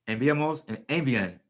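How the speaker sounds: enviamos, envían begun with a stressed EN; stress on first syllable. Shown as a demonstration. Teacher showing forms without accent marks, first-syllable stress. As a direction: say envían as EN-vyan, stress up front. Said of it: "that's not what they want the word to say".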